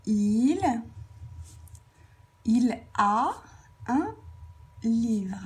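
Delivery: long pauses between the words, as if writing; word-by-word dictation. Shown as a demonstration. Teacher writing an example for pupils, word-by-word dictation. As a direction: dictate it slowly in separate chunks.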